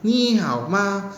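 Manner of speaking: "Ni hao ma." slow with clipped short "ma"; short toneless ma. Shown as a demonstration. Teacher showing short neutral-tone ma, slow demo. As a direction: keep the final ma brief and flat. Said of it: "Gak usah dibuat panjang gitu".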